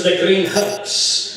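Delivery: slow, hammed-up Italian accent. Italian applicant finishing the test sentence, Italian accent. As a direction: joke Italian picking out each word in accent. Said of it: "The Italian guy says".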